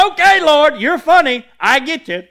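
loud, delighted laughing reply; excited laughing reply. Real, not acted. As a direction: laugh it out, caught by the joke. Laughing reply to God's joke.

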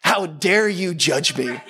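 slow, drawn-out indignation; slow mock affront; mock offended. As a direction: imitate an affronted friend, spacing the words. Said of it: "the look on his face".

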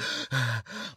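heavy, quiet breathing out; feigned asthma wheeze. Retold or imitated. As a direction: act out laboured breathing, softly. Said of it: "the asthma attack card".

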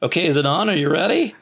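fussing before the camera rolls; fumbling camera start. Retold or imitated. The speaker mocking his own shaky early video intros. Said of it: "the beginning of the video would be like".

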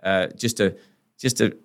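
impassioned lawyer speech. Retold or imitated.

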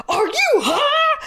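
hammed-up suspicious mom shout. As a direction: imitate mom demanding answers. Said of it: "she goes".

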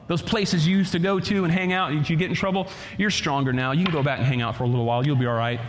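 low, sly tempter's voice, fast and coaxing; enemy's voice. Acted. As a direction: coax like the tempter, low and quick. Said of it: "the enemy comes and he speaks to you".

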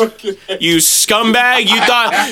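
slow, drawn-out fake scorn that breaks into laughter; hammed-up disgust at a fake ally; mock scolding. Teasing his friend about being an ally, in mock scorn.

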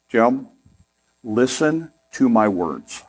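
slow, sugary "listen to my words"; lightly voiced sweet Southern wife, drawn out slowly. Husband recalls his wife's sweet warning, slow and sugary. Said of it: "she looks at me and she says".

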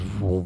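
short mimicked engine whoosh; imitated car noise. Man retelling how the car just went, imitated engine noise. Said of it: "this fucking car just goes".

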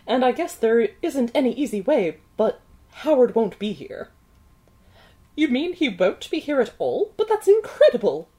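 put-on old-timey movie mother voice; mother accent. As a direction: play the fretting mother, old-movie style. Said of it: "good mother accent".

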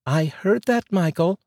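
high female voice, rising, teasing; wife calling out, high and teasing; wife catching him out. Acted. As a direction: let him know you caught that. Wife catches husband's muttered remark.

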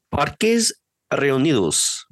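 slow, careful Spanish pronunciation; Spanish accent. Shown as a demonstration. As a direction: say it like a native Spanish speaker. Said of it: "can you do a good Spanish accent for that word".

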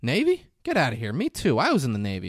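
mock astonishment, pitch leaping up on questions; retold lively surprise, swooping high; surprised reaction. Man learns of a fellow Navy man, acted surprise.

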